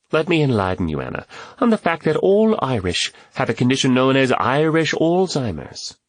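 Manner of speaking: lightly voiced comic lecturer; Reuben joking. A narrator's reading. Joker enlightens his German friend, mock-serious lecturing. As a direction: lift the pitch and stretch the punchline.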